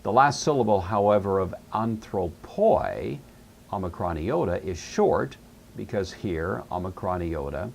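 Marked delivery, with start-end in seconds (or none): 1.7-3.2 "anthropoi" slow, in separate syllables; slow sounding-out. Shown as a demonstration. Teacher pointing out a Greek ending, slowly sounded out. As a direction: stretch "anthropoi" out for learners.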